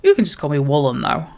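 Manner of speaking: hearty dwarf greeting, slightly northern; Dockmaster Woolen. Acted. Dwarf dockmaster welcomes a newcomer to the mountains, hearty role voice. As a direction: hail the newcomer loudly with a touch of northern English. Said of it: "go a little bit more northern".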